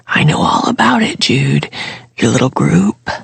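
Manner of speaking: hushed, secretive whisper; furtive whisper. A narrator's reading. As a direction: keep it secret, barely voiced. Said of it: "in a furtive whisper".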